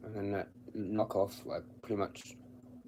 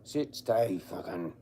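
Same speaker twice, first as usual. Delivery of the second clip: stern dog commands; much slower than usual. Shown as a demonstration. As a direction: bark the orders at the dog. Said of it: "A stern voice".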